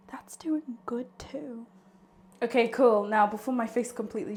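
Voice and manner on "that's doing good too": whispering. Real, not acted. Soft aside to viewers.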